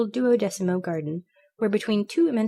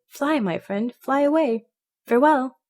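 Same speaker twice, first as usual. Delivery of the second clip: higher-pitched, rising urging; mildly dramatic send-off, louder on the last word; urgent farewell; 6 semitones higher, 4 dB louder than usual. A narrator's reading. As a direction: urge a friend to escape. Canary urges the bird to escape.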